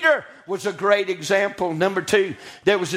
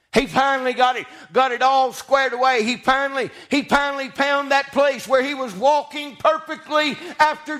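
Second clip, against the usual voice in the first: raised, building preacher's cadence; full-force preaching; 5 semitones higher than usual. Acted. Preacher celebrates Peter finally getting it right, preaching hard. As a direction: preach the mock celebration, pitched up.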